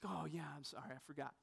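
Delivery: soft, dropped-away sorry; imitating the student's quiet sorry; sheepish kid apology. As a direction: mumble the apology like a caught kid. Kid apologizing to bus driver.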